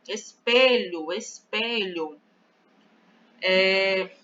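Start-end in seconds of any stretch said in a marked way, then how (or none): 0.1-2.2 Espelho slowly, twice, weight on middle pe; stress on PE. Shown as a demonstration. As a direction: draw out the pe in each espelho. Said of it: "a sílaba pronunciada com mais força é o pé".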